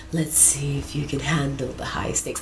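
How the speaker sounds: seductive line broken by giggles; giggling half-whisper; laughing through the line. Acted. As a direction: try to stay sultry but crack up.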